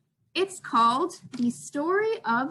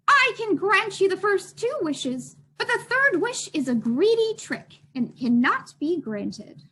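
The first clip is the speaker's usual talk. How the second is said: leprechaun; 5 semitones higher, 4 dB louder than usual. Acted. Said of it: "The leprechaun said".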